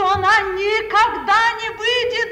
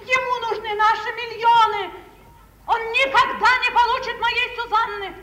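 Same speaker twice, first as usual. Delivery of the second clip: furious refusal; 3 semitones higher, 4 dB louder than usual. Acted.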